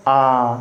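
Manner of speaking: आ held long and drawn out; long आ, stretched; long vowel drawn out. Shown as a demonstration. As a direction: stretch the आ to twice the length. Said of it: "आ पढ़ रहा हूँ तो क्या लग रहा है".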